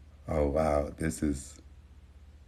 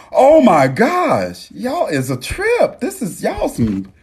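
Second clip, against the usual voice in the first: laughing; 14 semitones higher, 3 dB louder, slower than usual. Real, not acted. Cracking up at chat comments.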